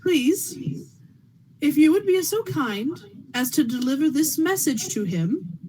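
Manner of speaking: a touch of proper politeness; prim genteel lady. Acted. Wife addresses the desk clerk with prim courtesy. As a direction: speak like a genteel lady keeping composure. Player plays a prim character.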